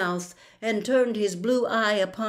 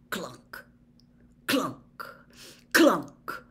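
three separate clunks, each one stronger; imitated clunks; much slower than usual. A narrator's reading. Narrator imitating heavy steps coming up, spaced hollow clunks.

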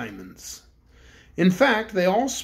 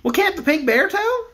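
higher, pleading cook's voice; anxious cook; 11 semitones higher, 4 dB louder than usual. Acted. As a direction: ask anxiously, hoping for help. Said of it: "asked Cake anxiously".

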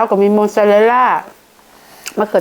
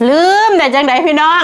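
loud laughing cry, higher; laughing exclaim; 8 semitones higher, 4 dB louder than usual. Real, not acted. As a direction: burst out laughing loudly. Laughing outburst while eating.

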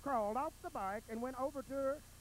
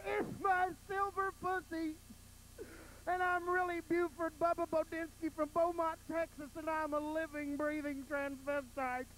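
mock crying; 6 semitones higher than usual. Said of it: "Poor Tick Tick cried".

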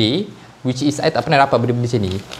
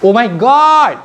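high, loud thrilled scream; excited shriek; 11 semitones higher, 7 dB louder, slower than usual. Real, not acted. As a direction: shriek like you hit the jackpot. Unboxing volume three.

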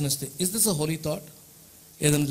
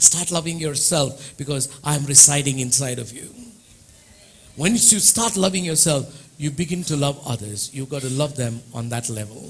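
tender appeal; 4 semitones lower, much slower than usual. Acted. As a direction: coax them gently. Slow soft appeal.

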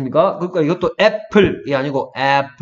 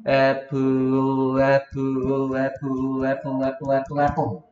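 gradually faster; 4 dB quieter, slower than usual. Shown as a demonstration. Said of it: "점점 빨리 한다".

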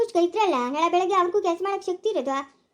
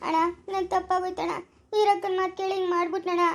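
tearful apology. Acted. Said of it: "ಅಳ್ತಾ ಇದೀಯ ನೀನು".

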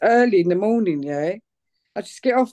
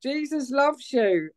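mild retold shout; 6 semitones higher, slower than usual. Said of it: "I shout out".

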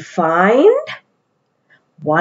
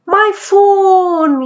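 higher, mildly raised mock yell; Mummy yells; 9 semitones higher than usual. Mummy yelling as she loses her phone now. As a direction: cry out for the lost phone. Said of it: "yells Mummy".

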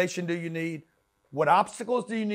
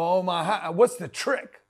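mock eager shortcut seeker; 2 semitones higher, 5 dB louder, slower than usual. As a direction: play the guy begging for the trick. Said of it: "You wanna know".

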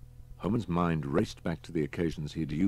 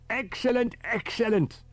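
pleased professor; 5 dB louder than usual. A narrator's reading. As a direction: savour the blast like a delighted scholar. Riker delighted.

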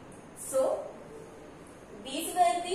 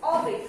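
orbit said simply, no stress on the final syllable; simple, unstressed ending; 5 semitones higher, 3 dB louder than usual. Shown as a demonstration. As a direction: leave the bit of orbit unstressed. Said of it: "इतना simply बोला है".

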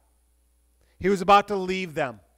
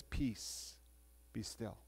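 hushed, unvoiced calm command; quiet the storm with a soft, breathless word; 7 semitones lower, 19 dB quieter, much slower than usual. A narrator's reading. Jesus stilling the storm for his disciples, hushed calm.

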